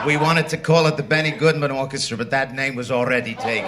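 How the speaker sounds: light mock Italian accent as Chico; Chico Marx. Chico answers the quizmaster in mock Italian accent. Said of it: "what's the name of this outfit".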